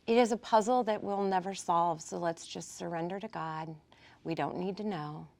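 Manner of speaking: hushed, letting it go to God; quiet self-talk. Acted. Talking to your brain while awake at night, quietly. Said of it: "Talk to your brain like that".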